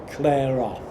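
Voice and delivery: loud, sharp shout from a window; retold shout. Charles shouting at the boy to clear off. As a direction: yell it across the forecourt. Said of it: "he shouted over to me".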